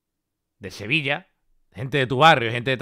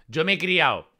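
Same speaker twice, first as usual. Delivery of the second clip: Andalusian accent; 3 semitones higher, 3 dB louder than usual. Shown as a demonstration. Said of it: "Alguien que no es andaluz no dice".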